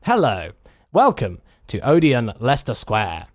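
a flat attempt at the cinema's phone line; low, measured cinema announcement; automated cinema phone voice. Shown as a demonstration. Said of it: "let me have a go".

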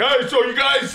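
high, loud mock dudebro voice; mocking the bro. Big guy butting into the comedy show, mock bro voice. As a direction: ham up the big surfer guy. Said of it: "he's like".

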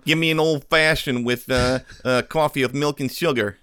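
lightly put-on Boston accent ordering coffee; a mild Boston coffee order. Ordering at Dunkin' to tease the movie, light Boston accent. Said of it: "Your accent is better than his".

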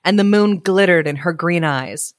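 measured, expressive storyteller; story narration. A narrator's reading. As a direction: read it aloud like a picture book. Reads story aloud.

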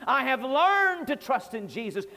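learned stressed, the rest evenly. Shown as a demonstration. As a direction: lean on learned in the line. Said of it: "And I put emphasis on learned".

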